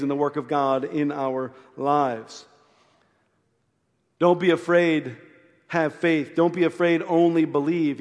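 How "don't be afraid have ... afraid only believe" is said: louder, ringing proclamation of "Don't be afraid, only believe"; emphatic preaching. Shown as a demonstration. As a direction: preach it out with conviction. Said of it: "You know what that means?".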